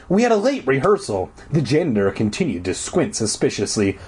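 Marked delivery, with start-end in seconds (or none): 0.1-1.3 raised-pitch backing up; chiming in. A narrator's reading. Girl supports her friend's excuse, chiming in. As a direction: chime in with the excuse. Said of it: "I chimed in".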